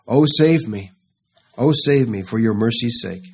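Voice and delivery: David begging for mercy, cry fading to a plea. Acted. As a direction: plead for rescue, then ease off. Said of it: "David begging for a return".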